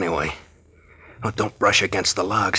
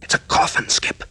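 shocked; 7 semitones higher than usual. Acted. Sees girl put in coffin.

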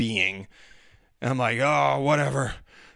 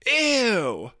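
put-on a high, squeaky little-girl "Ew"; disgusted kid; 10 semitones higher, 4 dB louder than usual. Daughter realizing it is meat after all: high, squeaky disgust. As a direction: recoil like a grossed-out child. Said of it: "And she goes".

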